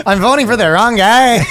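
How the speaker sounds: high, hammed-up Latino accent. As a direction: exaggerate a sing-song Latino accent. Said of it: "let's do a Latino accent".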